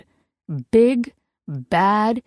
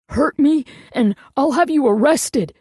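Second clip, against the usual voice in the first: higher, louder, strained words; choked threat; 7 semitones higher, 3 dB louder than usual. A narrator's reading. Ex choking out a threat while being shaken. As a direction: force it out as if throttled. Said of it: "Thomas choked".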